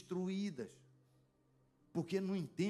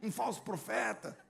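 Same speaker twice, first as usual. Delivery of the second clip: imitating a furious woman calling him a false prophet, pitched higher; angry accusation; 4 semitones higher than usual. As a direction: accuse him with mock outrage. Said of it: "ficou brava demais". (acusação indignada imitada, voz mais aguda)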